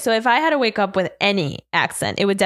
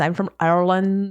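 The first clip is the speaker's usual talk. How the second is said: mock Irish accent; 3 semitones lower than usual. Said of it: "Irish is so cool".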